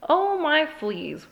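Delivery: high, slow mock wail; hammed-up motherly wail. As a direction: moan it like a fretting mother. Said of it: "wailed Mama Junebug Jones".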